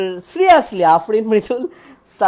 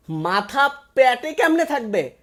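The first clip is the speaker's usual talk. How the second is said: laughing through the question, slowly; 4 semitones higher, slower than usual. Real, not acted. Teacher laughing at students' wrong answer, laughing. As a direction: laugh in disbelief as you ask.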